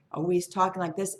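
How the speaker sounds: lightly puffed-up, lively delivery; inflated talk. Retold or imitated. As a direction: imitate someone talking himself up. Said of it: "inflating it".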